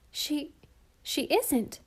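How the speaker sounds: high, upset protest; high child's cry of denial; cried out. A narrator's reading. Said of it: "cried Walter".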